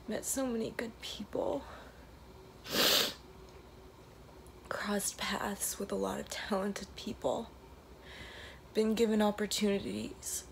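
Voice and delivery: emotional, near tears, half whispered; tearful goodbye. Real, not acted. Emotional trailer video, last day.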